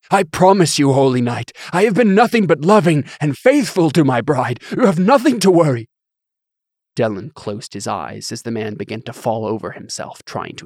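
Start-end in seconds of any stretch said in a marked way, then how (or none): 0.1-5.9 high, loud desperate begging; desperate pleading. Acted. Bishop lies, begging for life.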